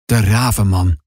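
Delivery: low, voiced stage whisper; ominous old grandpa. A narrator's reading. Grandpa names who is coming, ominous and hushed in tone. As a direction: utter it low like a dark warning. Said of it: "fluistert hij".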